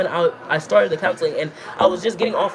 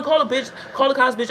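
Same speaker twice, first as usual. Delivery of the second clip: laughing taunt; 7 semitones higher than usual. Retold or imitated. Daring roommate to call cops.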